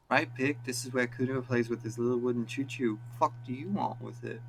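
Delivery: snotty street brat; cocky street kid. Acted. Kuno talking back.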